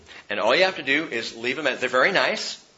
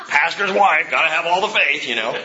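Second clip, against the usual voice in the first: louder, laughing tease; teasing, laughing; 4 semitones higher, 6 dB louder than usual. Retold or imitated. Pastor teasing his wife about her faith, laughing. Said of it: "I'm like".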